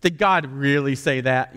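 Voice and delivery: slow, lightly voiced snark; snarky serpent. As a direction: question it slowly with a touch of sarcasm. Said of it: "this serpent is going".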